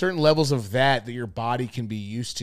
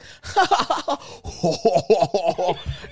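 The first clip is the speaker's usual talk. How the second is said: imitated girlfriend's laughter; 5 semitones higher than usual. Girlfriend laughing at the show, hammed-up imitation. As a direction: exaggerate an overwhelming laugh. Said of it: "she was laughing at the show".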